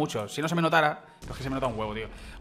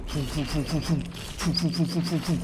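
rhythmic string of puffed "foom" sounds; imitated whoosh noises. Real, not acted. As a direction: make repeated little swooshes with the mouth. Imitating movement noises while playing.

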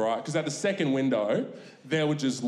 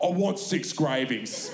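deadpan demand; slower than usual. Retold or imitated. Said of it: "dad demands".

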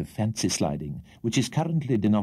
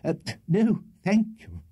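quick, high refusal; hurried; 10 semitones higher than usual. A narrator's reading. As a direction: brush the offer off fast. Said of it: "replied Mister Winkle hurriedly".

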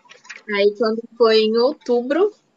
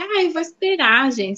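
mock dithering friend; 6 semitones higher than usual. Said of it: "fico até brava quando a pessoa fala assim".

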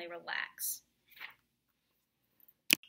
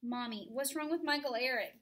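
put-on wailing child; 3 semitones higher, 7 dB louder than usual. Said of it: "Daniel wails".

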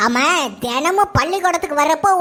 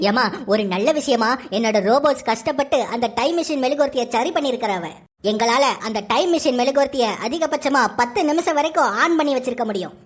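deep scientist voice; 7 semitones lower than usual. Acted. Scientist character speaks. (ஆழ்ந்த குரலில் விஞ்ஞானி)

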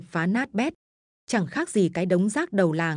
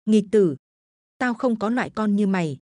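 stern shout. Acted. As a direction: thunder at the wayward son. Ghost father shouting at son.

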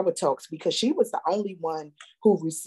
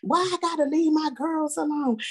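put-on higher, whiny teen girl; high mock teen whine; whiny teen protest; 10 semitones higher than usual. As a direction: complain like a put-upon teenager. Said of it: "She was like".

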